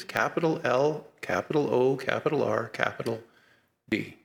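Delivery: capital L, capital O, capital R, capital D, each letter separated and fading; spelled out letter by letter. Shown as a demonstration. Preacher spelling the divine name for the congregation, letter by letter. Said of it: "spelling out L O R D".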